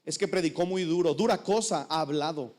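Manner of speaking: low imitating mutter; grumbling congregant. Congregant grumbling about sermon.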